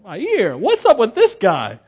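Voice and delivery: loud, slow, hammed-up injured servant; mock pained Malchus. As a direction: cry out like a man who just lost his ear. Malchus after losing his ear.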